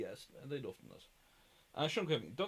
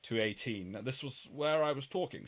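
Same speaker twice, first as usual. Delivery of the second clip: lightly put-on posh British school accent; posh British schoolroom voice, lightly done. Shown as a demonstration. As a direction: slip into a measured posh private-school English. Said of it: "I'll turn this voice on for this".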